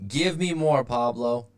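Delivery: high, loud coaxing; eager. Real, not acted. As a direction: egg him on eagerly. Urging a chat commenter.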